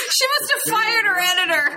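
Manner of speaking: barely holding in a laugh; laughing disbelief at a joke. Real, not acted. Laughing at long-winded remark.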